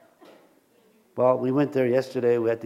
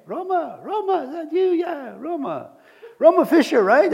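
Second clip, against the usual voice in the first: lightly voiced eager fan; 13 semitones higher, 6 dB louder than usual. Stranger's eager recognition.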